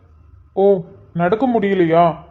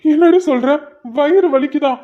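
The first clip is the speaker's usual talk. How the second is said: higher-pitched, panicked questioning; alarmed; 4 semitones higher than usual. Acted. Husband hears of pains a month early, alarmed. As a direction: question her in rising alarm.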